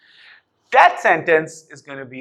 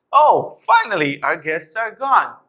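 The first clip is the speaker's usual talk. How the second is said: happy tone; 6 semitones higher than usual. Shown as a demonstration. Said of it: "in a happy tone".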